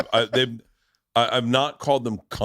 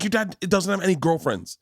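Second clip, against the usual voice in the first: high-pitched, incredulous mock scolding; berating; 9 semitones higher than usual. Mother to daughter about dad's girlfriends, high berating. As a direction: imitate an outraged mother, voice climbing. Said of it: "berated her".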